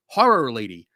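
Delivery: Horror Lady with a Philly vowel in Horror; Philly accent. Real, not acted. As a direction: Horror said the Philly way, like hore-ror. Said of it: "My Philly accent is having trouble".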